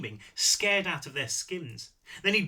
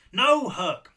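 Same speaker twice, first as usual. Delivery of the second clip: sharp correction; 6 semitones higher, 9 dB louder than usual. Acted. Ostheim cutting Herc off.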